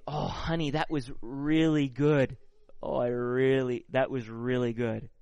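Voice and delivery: warm, eager compliment to his wife after a meal; bright delighted thanks for a good dinner; joyful praise. Shown as a demonstration. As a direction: gush over the meal with real delight. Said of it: "That's an expression of joy".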